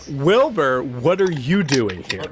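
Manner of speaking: put-on lightly drawled southern accent; slow southern-accented question; deep southern accent. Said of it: "in a deep southern accent".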